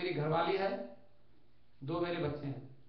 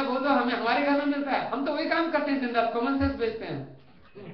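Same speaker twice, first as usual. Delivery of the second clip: louder, higher boast that slows at the end; proud boast; 4 semitones higher, 6 dB louder than usual. Acted. Taxi driver proudly tells the traveller, loud and pleased. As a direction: crow about selling common sense.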